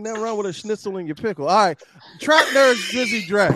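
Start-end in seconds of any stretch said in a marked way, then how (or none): 2.2-3.5 announcer call. Acted. Announcing next contestant loudly.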